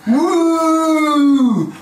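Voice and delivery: loud high cheer; excited whoop. Real, not acted. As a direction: let out a big whoop. Cheer after the intro.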